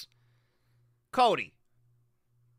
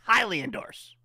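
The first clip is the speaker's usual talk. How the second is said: laughing repeat; 2 semitones higher than usual. Real, not acted.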